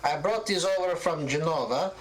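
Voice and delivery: put-on high old shopkeeper voice, Italian lilt, showing off her wares; an elderly seamstress boasting of buttons from Genova; proud old Italian seamstress. Gilda talks of her buttons.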